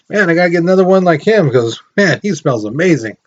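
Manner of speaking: gushing, jokey voice of a delighted German; mock German gardener. Teacher mocks a German admiring body soap, hammed-up. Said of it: "a German person be like".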